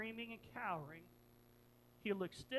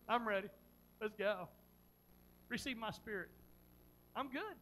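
calm, spaced-out acceptance; unhurried surrender, with pauses between phrases; composed readiness. Acted. Preacher voicing Stephen facing death, calm and ready. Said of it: "No, Stephen goes".

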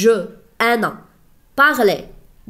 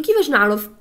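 higher, quick imitation of a pupil asking; students' question; 3 semitones higher, 3 dB louder than usual. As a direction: lightly mimic students' hurried objection. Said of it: "تقولوا لي".

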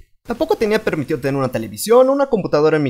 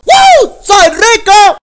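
very high, loud victory whoop; gleeful cheer; 11 dB louder, much slower than usual. Acted. Kid cheers after earning fifty cents, loud high whoop. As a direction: celebrate like you hit the jackpot. Kid celebrates getting money.

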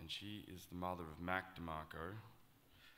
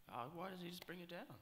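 retold suggestion; 10 semitones higher, 3 dB quieter than usual. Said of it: "I was like".

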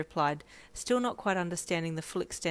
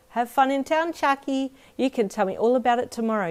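put-on small child's happy voice, higher and louder; beaming child; 7 semitones higher, 6 dB louder than usual. Little girl beaming goodbye to her best friend, high and bright. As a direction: sound like a delighted little kid. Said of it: "you beamed".

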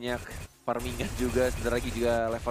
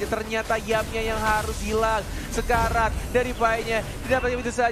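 fighting game announcer; 9 semitones higher, 5 dB louder than usual. Real, not acted. Caster hypes a team fight.

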